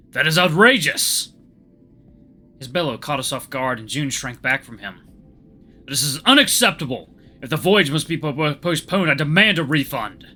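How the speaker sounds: loud indignant outburst; furious, demanding a refund; angry. Acted.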